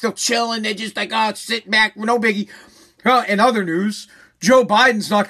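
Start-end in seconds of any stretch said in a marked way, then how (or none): 1.1-2.5 mock relaxed host. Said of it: "they'll be all relaxed".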